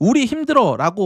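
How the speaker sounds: normal talking voice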